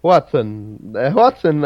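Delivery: "Hoatzin" pronounced carefully, on its own; demonstrated pronunciation. Shown as a demonstration. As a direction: say "Hoatzin" as two clear parts. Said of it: "that's how it's pronounced".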